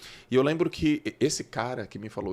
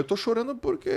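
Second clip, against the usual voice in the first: mock crying; 12 semitones higher than usual. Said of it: "eu falando chorando".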